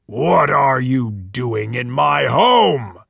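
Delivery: low, slow growling monster. Acted. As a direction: growl it over the captured boys. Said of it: "and growled".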